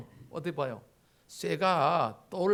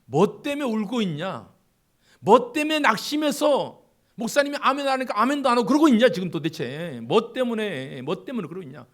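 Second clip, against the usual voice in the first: rising from gentle to loud, higher calling; god calling out; 4 semitones higher, 10 dB louder than usual. Acted. God asking the downcast believer, building to a loud call. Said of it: "그러면서 말씀하시겠죠".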